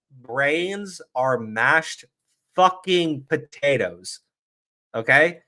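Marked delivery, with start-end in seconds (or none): 0.1-4.2 drawn out, word by word, with pauses; very slow, softer dismissive verdict; slow scornful emphasis. Real, not acted. Streamer judging his opponents' brains, slow scornful emphasis.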